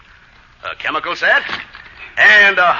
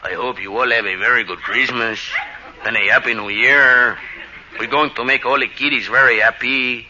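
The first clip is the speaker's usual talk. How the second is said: a lightly voiced Brazilian Santa, pitched lower; lower, mild foreign Santa voice; 4 semitones lower than usual. Brazilian Santa addresses the convention in a lightly voiced lower Santa voice. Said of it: "the Brazilian Santa Claus said to the convention".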